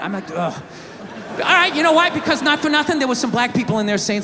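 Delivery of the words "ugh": low, quiet groan of dread; exasperated groan. Retold or imitated. Husband dreading an argument with his wife, exasperated groan. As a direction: let out a soft, weary ugh.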